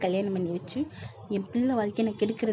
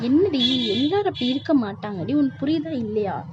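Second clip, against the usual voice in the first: sharp outburst; 3 semitones higher, 3 dB louder than usual. Acted. Mother scolds daughter.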